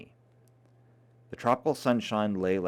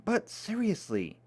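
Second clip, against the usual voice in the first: sudden serious tone; 9 semitones higher than usual. Acted. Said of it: "with a sudden change of tone".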